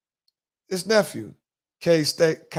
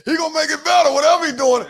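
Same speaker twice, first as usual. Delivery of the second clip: quoting the wife; 10 semitones higher, 7 dB louder than usual. Retold or imitated. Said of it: "That's what she said".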